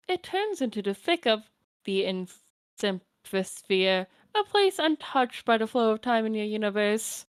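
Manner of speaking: lightly voiced doting grandmother; a hint of a kindly old granny; old grandma voice. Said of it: "my Nana voice".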